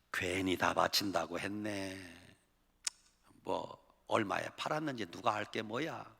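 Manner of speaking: muttered regret. Acted. Regretting the promised gift.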